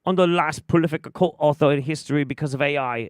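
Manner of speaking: mocking drunk Mario. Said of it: "And he's like".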